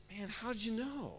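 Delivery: buffer character. Acted. Buffer answers in acted dialogue.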